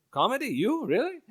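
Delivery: high, incredulous questioning; surprised family. Retold or imitated. Family hearing he does comedy, mock surprise. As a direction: imitate disbelief, each word jumping up in pitch. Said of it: "And they were surprised".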